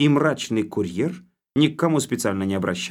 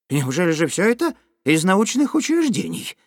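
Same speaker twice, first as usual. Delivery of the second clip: reverent; 9 semitones higher, 3 dB louder than usual. Acted. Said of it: "благоговейно спросил Хлебоводов".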